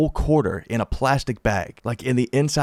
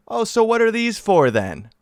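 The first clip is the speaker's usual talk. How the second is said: much higher, sarcastic imitation of the cop; mock cop voice; 12 semitones higher than usual. Imitating the cop holding up the bags, much higher. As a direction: pitch way up, smug and knowing. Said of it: "she looks me right in the face".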